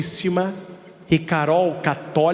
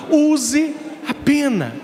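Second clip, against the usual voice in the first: shouted exhortation; 9 semitones higher, slower than usual. Real, not acted. Preacher's punchline exhortation.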